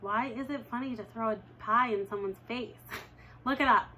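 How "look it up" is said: sassy retort. Retold or imitated. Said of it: "I tell them".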